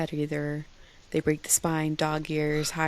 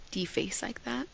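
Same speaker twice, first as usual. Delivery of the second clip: breathy secret whisper; 5 semitones higher, 8 dB quieter than usual. Real, not acted. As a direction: drop to a confessional whisper. Confessing a guilty secret.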